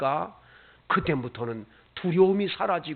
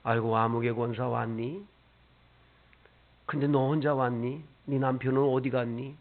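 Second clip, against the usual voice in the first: a hint of a gentle, lower questioning Lord; the Lord's voice; 4 semitones lower than usual. Lightly voiced Lord asking a deaconess where her family is. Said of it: "주님께서".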